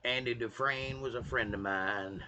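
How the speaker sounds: low, soft narrator impression; Morgan Freeman. Quoting a film in a lightly voiced narrator impression. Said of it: "sound like Morgan Freeman".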